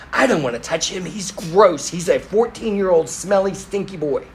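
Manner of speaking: mock disgusted refusal, leaning on the insults; retold disgust. Mother refusing to touch her son, mock disgust. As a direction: imitate a parent recoiling at a grubby teenager.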